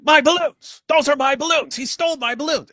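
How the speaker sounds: a hammed-up Joker tantrum, squealing high; Joker flipping out. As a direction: flip out like the Joker losing his balloons. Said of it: "didn't he flip out at that point?".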